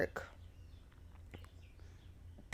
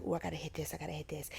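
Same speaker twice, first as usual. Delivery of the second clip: retold self-talk; 2 semitones lower, 10 dB quieter, much faster than usual. Retells own eager planning to self.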